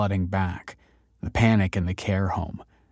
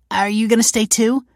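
high, louder hopeful question; optimistic; 14 semitones higher, 6 dB louder than usual. A narrator's reading. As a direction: ask it full of hope, pitched up high. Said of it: "asked Leon optimistically".

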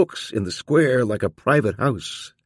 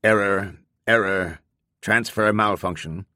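mechanical voice. Acted. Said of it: "A mechanical voice says calmly".

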